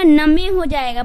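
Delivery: नमे said with the e sounded, na-me; नमे: both vowels pronounced; wrong pronunciation. Shown as a demonstration. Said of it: "अगर ई का उच्चारण यहाँ पे करते हैं". (नमे, ई उच्चारित)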